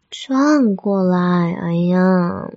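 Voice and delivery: slow, drawn-out plea; insistent coaxing. Acted. Girlfriend asks partner to turn round, insistent coaxing. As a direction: stretch it out with fond exasperation. Repeats the request, exasperated.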